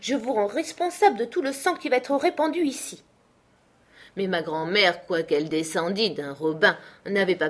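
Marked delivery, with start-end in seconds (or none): 0.0-3.0 high, theatrical duelist's challenge; en garde. A narrator's reading. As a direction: declaim it like a swashbuckler on guard. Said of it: "se mettant en garde".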